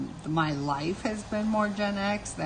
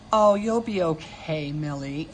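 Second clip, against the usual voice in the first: patronizing singsong, dropping on the name; mock condescending. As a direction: playfully talk down with fake sympathy. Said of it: "in a total condescending voice".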